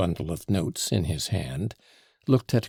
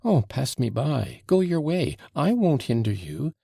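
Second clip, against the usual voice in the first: raised, impassioned cry; 6 semitones higher than usual. A narrator's reading. Mitya telling Grushenka he won't hinder her, crying out. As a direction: cry out, waving them on. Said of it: "cried Mitya, flinging up his hands".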